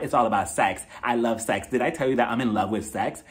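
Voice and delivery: hushed deep impression of a sex-obsessed friend; Erica. Answering who she's dating, low mock sultry. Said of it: "Erica's just like".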